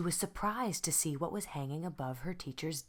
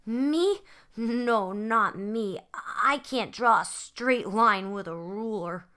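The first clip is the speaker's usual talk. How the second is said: put-on protesting little boy; 5 semitones higher, 8 dB louder, slower than usual. Boy protests he can't draw.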